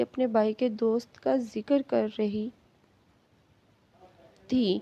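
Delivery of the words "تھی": plain reading voice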